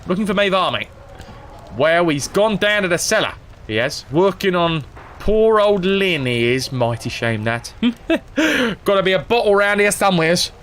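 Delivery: hammed-up old rogue rambling for a bottle; lightly voiced old drunk; old drunk Gorvin.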